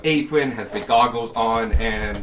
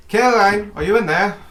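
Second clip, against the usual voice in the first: raised high calling voice; calling through a door; 10 semitones higher, 7 dB louder than usual. Acted. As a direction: call out to someone behind a door. Clerk calls through the door.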